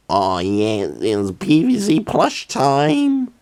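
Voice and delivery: slow, high, goofy mock announcement; mock-excited self. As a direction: lightly play his own silly past self. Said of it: "and was like".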